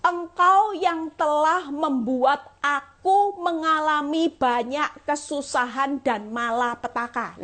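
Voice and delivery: slow, solemn psalm reading; scripture reading. Acted. Preacher reading the psalm to the congregation, slow and solemn. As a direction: read it out slowly and gravely.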